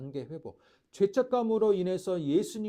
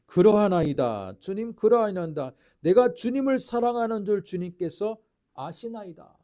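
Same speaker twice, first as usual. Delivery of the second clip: fervent confession; 2 semitones higher, 7 dB louder than usual. Acted. Preacher voicing Peter's loud confession to Jesus. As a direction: proclaim it like a devoted disciple.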